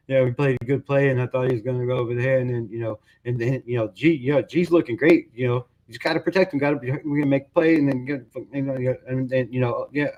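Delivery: lightly voiced mumbling coach, fast and slurred; mumbling Pete Carroll. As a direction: mumble it through like a lost coach. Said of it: "It's mostly mumbles".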